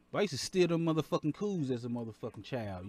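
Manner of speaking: ordinary talk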